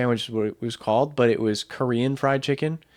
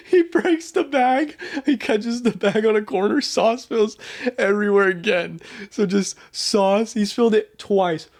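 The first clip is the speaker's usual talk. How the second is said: laughing; 6 semitones higher than usual. Real, not acted. Laughing through the spill story.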